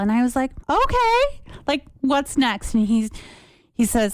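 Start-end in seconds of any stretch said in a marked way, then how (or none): 0.7-2.7 breezy okay. Retold or imitated. Bright quoted reply.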